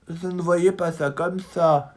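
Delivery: high, slow, let-down little mouse; disappointed. A narrator's reading. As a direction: sigh over the broken dream. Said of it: "dit Pipioli déçu".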